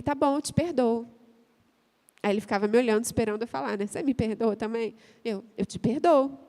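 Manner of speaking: usual speaking voice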